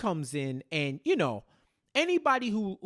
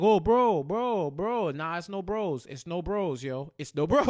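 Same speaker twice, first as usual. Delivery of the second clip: mock panic; 4 dB louder than usual. Trace pleading with gunman, mock panic. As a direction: beg him to back off in a rush.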